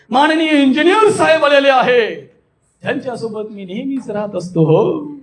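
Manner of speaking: amazed, lifted announcement; exaggerated wonder. Shown as a demonstration. Speaker announces the honoured engineer, awestruck. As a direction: build the guest up as a wonder. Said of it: "वर चढून सांगितलं".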